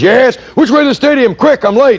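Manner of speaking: high, urgent woman calling out; high-pitched honking lady. Retold or imitated. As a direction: squeak it out like an impatient lady driver. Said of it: "he says".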